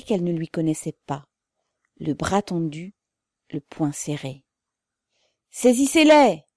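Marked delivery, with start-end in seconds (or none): 5.5-6.4 loud, high angry command; growled order. A narrator's reading. Old man orders soldiers to seize them, growled shout. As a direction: order the arrest with a stamp. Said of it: "grogna le vieillard en frappant du pied".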